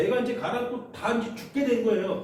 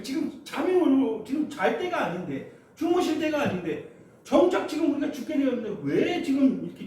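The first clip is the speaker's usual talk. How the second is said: resentful plea; 3 semitones higher than usual. Acted. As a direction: ask why he does not care. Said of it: "원망하는 겁니다". (원망하는 간청)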